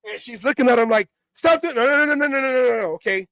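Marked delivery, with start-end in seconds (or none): 1.3-3.3 rapid run of higher-pitched objections; imitated scolding. Girlfriend stopping the noisy boy, mock scolding. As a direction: cut him off with a string of noes.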